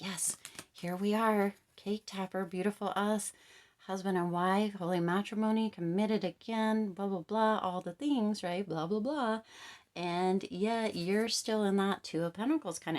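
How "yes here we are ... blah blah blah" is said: lampoon their fairy-tale plans; mocking dreamy partner. Reader mimicking the partner's dream of marriage, higher mocking sing-song.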